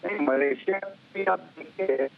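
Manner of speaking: distant breaking-up phone line; garbled remote caller audio; voice cutting out. Real, not acted. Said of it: "आपकी आवाज कट रही है".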